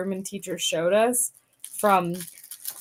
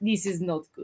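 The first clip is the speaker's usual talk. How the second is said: put-on Russian accent. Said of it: "A Ru-, Russian".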